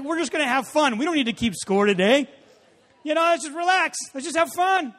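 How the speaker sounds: loud, high, insistent mock cheerfulness; overdone carefree pep talk; forced cheer. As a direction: talk yourself into having fun. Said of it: "That's what we say when we're playing really bad".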